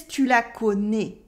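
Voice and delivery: southern French "tu la connais", ending on closed "né"; "tu la connais" in a southern France accent. Shown as a demonstration. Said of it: "He says".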